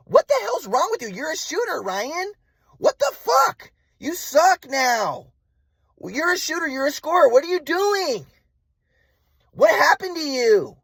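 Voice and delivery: high-pitched mock wail with long drawn words; outraged mother imitation. Mom berating her son at his game, outraged high mock wail. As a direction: mimic mom's incredulous, high-pitched tirade.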